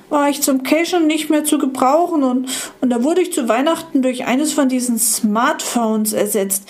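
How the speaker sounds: put-on old iPod explaining how it was replaced; old iPod telling. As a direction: tell it ruefully. Old iPod tells its story.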